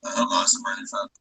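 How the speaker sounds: muffled whisper-like phone audio; muffled phone mic. Real, not acted. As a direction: speak as if the phone is muffled in a case. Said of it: "It's just muffled".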